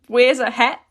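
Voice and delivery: chuckling through the words; amused little laugh. Real, not acted. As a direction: laugh as you say it. Funny example, teacher laughs.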